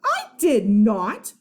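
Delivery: loud, slow denial; defensive denial. Acted. Boy denying the theft to his friend, loud and firm. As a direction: push back hard. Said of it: "defending himself".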